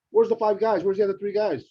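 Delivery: loud mock complaint; mock outrage. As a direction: demand it like an outraged customer. Complaining loudly at the counter.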